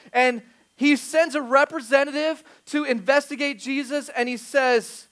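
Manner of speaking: loud, high-pitched preacher delivery; forceful preaching. Acted. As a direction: drive the point home to the congregation.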